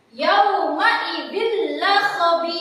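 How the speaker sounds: Yauma idzil la khabir chanted slowly with a snort on la; slow sung Yauma idzil with a nasal push before la; wrong nasal read. Shown as a demonstration. Teacher demonstrates the forbidden snorting reading. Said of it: "Tidak boleh dibaca mendengus seperti ini".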